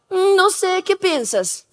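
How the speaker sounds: hesitate, then let the pitch climb into a tentative maybe; wavering conscience. Retold or imitated. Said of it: "pero ahora está". (conciencia que duda, aguda y suave)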